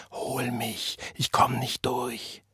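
John whispers he can't get through; whispering. A narrator's reading. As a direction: whisper it as if all strength is gone. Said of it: "flüsterte John".

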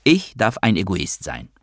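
"Ich" held apart with calm emphasis; unwavering emphasis on the opening "Ich"; cool stress on ICH. A narrator's reading. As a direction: put the weight firmly on "Ich". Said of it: "unbeirrbarer Betonung auf dem Ich".

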